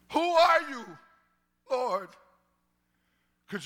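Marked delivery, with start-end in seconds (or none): 0.1-2.1 high, loud desperate cry to heaven. Pretend. Blinded Saul crying to the Lord, desperate.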